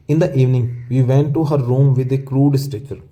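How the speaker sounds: very slow, word by word; slow reading. Shown as a demonstration. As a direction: read the line slowly for the class. Teacher reads textbook passage aloud. (धीमे-धीमे पढ़कर सुनाना)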